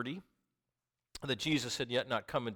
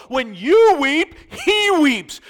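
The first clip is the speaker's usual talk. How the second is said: shouting; 19 dB louder, much slower than usual. Acted. Shouted climax line.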